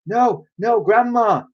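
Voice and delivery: high alarmed plea; crying out. A narrator's reading. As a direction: beg her not to. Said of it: "George cried out".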